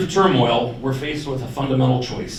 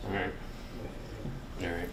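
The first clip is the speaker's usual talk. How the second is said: projecting to the back of the room; teacher voice; 4 semitones lower, 17 dB quieter, faster than usual. Real, not acted. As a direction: carry it without a mic. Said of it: "No, it's my teacher voice".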